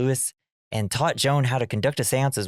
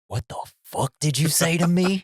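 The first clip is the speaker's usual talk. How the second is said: retold outraged mother, pitch jumping up; mock indignation; 6 semitones higher than usual. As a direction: act out an offended comeback. Acted mother snapping back at son.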